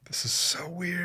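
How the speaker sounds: drawn out, a touch baffled; unsure thought about strangers' house; slow puzzled muse. Retold or imitated. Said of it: "I'm like".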